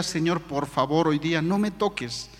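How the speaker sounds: quietly beg, as in a private prayer; pleading prayer. Retold or imitated. Man praying on the way to church, quiet pleading. Retells his prayer to God.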